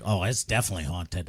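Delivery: low, hushed ominous tone; spooky quiet voice. Retold or imitated. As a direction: say it like a ghost story. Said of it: "and he's like".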